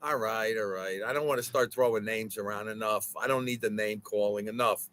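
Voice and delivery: deep, gruff scolding voice; stern scolding. Acted. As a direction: put the kid in his place. Mock scolding over name calling.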